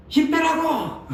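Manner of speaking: high, shouted command; mock voice-teacher yell. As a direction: bark it at the student. Voice teacher yelling.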